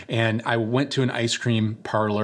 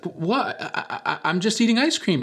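put-on high, breathy-to-whispered childish protest; innocent little boy; 9 semitones higher than usual. Little boy answering his dad at the ice cream window, high innocent protest. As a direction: play a kid caught out, pleading innocence.

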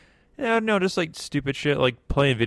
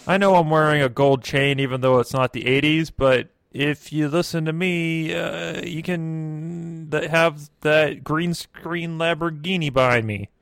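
higher-pitched, punchy infomercial pitch; mock seminar huckster; 4 semitones higher than usual. Gold-chained host selling viewers a Lamborghini dream, mock pitch. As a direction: sell it with hammed-up fake sincerity.

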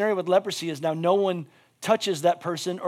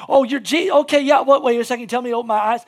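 loud, higher-pitched flurry of disbelief; flustered amazement; 6 semitones higher, 7 dB louder, faster than usual. Acted. Preacher voices someone meeting Jesus, flustered amazement. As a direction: tumble through a stunned recognition, loud and raised.

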